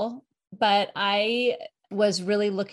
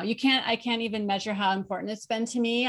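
usual speaking voice

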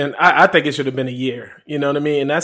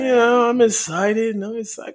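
mock-excited, fading away softer; 6 semitones higher, 6 dB quieter than usual. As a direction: imitate a sleepy claim of excitement, softly. Mocks co-host's sleepy claim of excitement.

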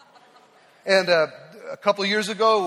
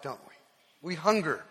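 usual speaking voice

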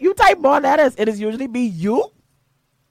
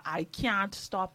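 slow and deliberate; 7 dB quieter, much slower than usual. Real, not acted. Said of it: "choosing my words very carefully".

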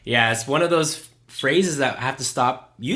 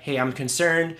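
calm concerned asking; 3 semitones lower than usual. Retold or imitated. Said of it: "I was like".

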